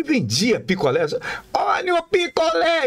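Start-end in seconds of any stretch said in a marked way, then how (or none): 1.5-2.9 high, thin singsong call of a popsicle seller; thin vendor call voice. Retold or imitated. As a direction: call out popsicles like a little street kid. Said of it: "Ele tinha uma vozinha fininha assim". (vozinha fininha de vendedor de picolé)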